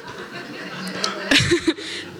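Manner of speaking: breathy giggle, high and unvoiced; laugh. Real, not acted. Amused at poking sleepy Jonas, airy giggle. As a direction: giggle at the memory.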